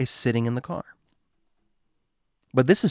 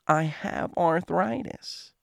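weak falsetto; 4 semitones higher, 5 dB quieter, slower than usual. Acted. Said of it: "The falsetto, weak voice, she says".

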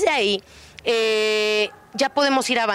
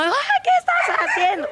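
much higher, slow shrill scolding cry at the dog; owner yelling. Retold or imitated. Trainer imitating owners who yell at their dogs, high mock scold. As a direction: mimic a panicked owner snapping at the dog. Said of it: "tengo mucha gente que les grita".

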